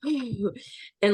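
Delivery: a quick gasp showing breath work; light sampled gasp; demo gasp. Shown as a demonstration. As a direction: act out one sharp breath-work gasp. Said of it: "just making these noises".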